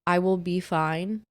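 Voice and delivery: slow, deliberate delivery, spaced out; measured group text. Retold or imitated. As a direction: lay down the rule one piece at a time. Reciting own firm group text.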